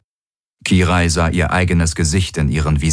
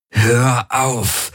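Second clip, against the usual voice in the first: sharp order, a touch raised; commanding snap; 6 semitones higher than usual. A narrator's reading. Garland ordering the Helix to stop, sharp command. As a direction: bark it at the voice in your head. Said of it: "herrschte er die Helix an".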